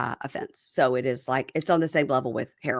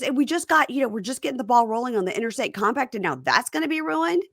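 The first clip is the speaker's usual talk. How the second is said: husband; 6 semitones higher than usual. Retold or imitated. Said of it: "And he goes".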